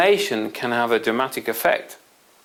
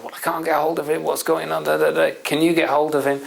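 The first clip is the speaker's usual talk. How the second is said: higher-pitched, mock panicky questions; panicking father; 5 semitones higher, faster than usual. Father can't reach the son dealing with it, mildly panicking. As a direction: act out a flustered father. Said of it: "the father's panicking and panicking and panicking".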